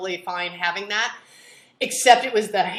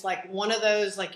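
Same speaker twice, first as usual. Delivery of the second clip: usual speaking voice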